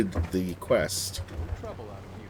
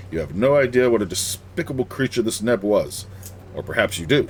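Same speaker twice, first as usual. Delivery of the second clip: louder, lightly acted dialogue read; a hint of formal quest-giver; quest-giver's read-out; 3 semitones higher, 6 dB louder than usual. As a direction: project it like a game character thanking a hero. Reads a character's quest dialogue aloud.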